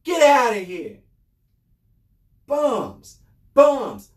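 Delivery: forceful Rochester, New York dismissal; Rochester, New York accent. Acted. Host dismissing officials, Rochester, New York accent. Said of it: "in my Rochester, New York voice".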